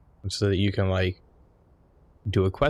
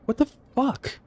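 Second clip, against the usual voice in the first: imitating wife's shrill-high shocked cry, much higher; shocked outburst. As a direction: squeal it like she just fell off the dragon. Wife shocked at falling.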